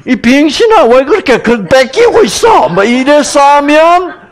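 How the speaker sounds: high, loud angry scolding; scolding mother. Acted. Mother yelling at her child for letting his toy be taken, angry.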